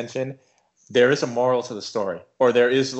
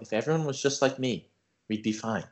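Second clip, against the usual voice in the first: softer, calm enlightened tone; quiet and calm; 5 dB quieter than usual. Retold or imitated. Friend imitating Ben's enlightenment, quiet and calm. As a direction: say it like his chakras just cleared. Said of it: "he got real quiet and real calm".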